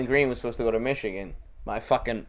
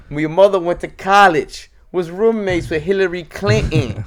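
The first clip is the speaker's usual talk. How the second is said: higher, louder, laughing through it; laughing mock voice; 4 semitones higher, 4 dB louder than usual. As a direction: tease it with a laugh. Mocking quote, laughing.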